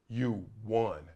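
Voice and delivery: very soft, low counselor's verdict; hushed, moving quote. Retold or imitated. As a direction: say it low and softly, letting it land. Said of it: "these two words that brought me to tears".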